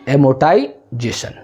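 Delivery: term drawn out very slowly, in pieces; शब्द तोड़कर बोलना. Shown as a demonstration. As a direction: stretch the word slowly, pause before its last part. Teacher draws term out for class. (शब्द को खींचकर, रुक-रुककर बोलें)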